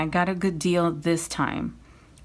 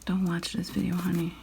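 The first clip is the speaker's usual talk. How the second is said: whispering; 3 dB quieter than usual. Real, not acted. Aside to husband.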